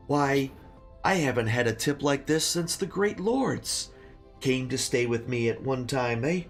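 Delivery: put-on rambling old innkeeper voice; a hint of a grateful old barkeep; very old man.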